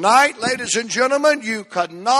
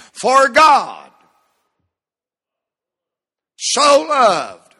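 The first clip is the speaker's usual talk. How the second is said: shouted scripture; 4 semitones higher, 5 dB louder, much slower than usual. Acted.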